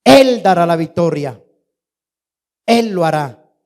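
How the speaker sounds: loud, driving preacher's crescendo; fervent preaching. Real, not acted. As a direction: preach it forcefully, hammering each phrase. Preaches at full force. (prédica enérgica, con fervor creciente)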